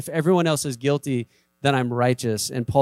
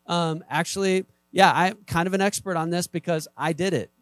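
higher, playful self-mocking brag; mock self-boasting; 4 semitones higher than usual. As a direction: ham up bragging about your own physique. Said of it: "Some of you are laughing".

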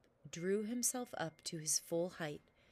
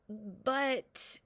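frightened; 3 semitones higher, 4 dB louder than usual. Acted. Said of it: "too frightened to know what he was".

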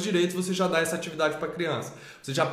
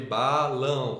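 "balão" lower, in two separate syllables; sílabas separadas; 4 semitones lower, much slower than usual. Shown as a demonstration. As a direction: say "balão" block by block: ba, lão. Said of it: "a separar sílabas". ("balão" pausado em ba, lão)

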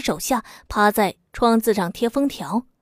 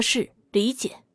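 said with a laugh; 7 dB quieter, slower than usual. Acted. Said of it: "吴助理笑着说".

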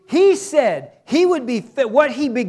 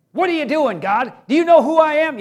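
questioning God; 5 semitones higher, 5 dB louder than usual. Retold or imitated. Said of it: "You're gonna question God".

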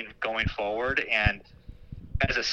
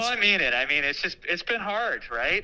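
choked up; 6 semitones higher than usual. Real, not acted. Principal telling the seniors goodbye, choked up and pitched high. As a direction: voice climbing high with emotion, close to tears. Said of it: "I'm even getting choked up".

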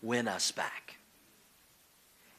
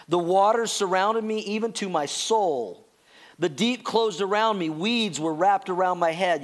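scripture reading. Acted. Reads scripture aloud.

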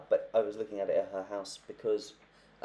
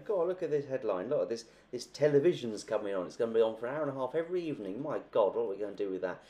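Ernest marvelling at the paper, higher and a bit louder; amazed old husband; 3 semitones higher, 3 dB louder than usual. Retold or imitated. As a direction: read the headline like a stunned old-timer. Husband reads newspaper aloud, amazed.

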